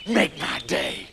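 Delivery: put-on menacing American farmer; growing threat in an American accent; dangerous American accent. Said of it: "sound all dangerous and American".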